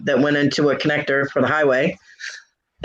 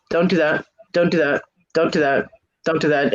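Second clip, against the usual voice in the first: monotone. Shown as a demonstration. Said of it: "in a very monotone tone of voice".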